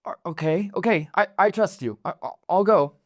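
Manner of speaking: flustered agreement. Acted. Pyra agreeing to hide for her mentor, flustered. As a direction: give in nervously, tripping over the words. Apprentice gives in to urgent order.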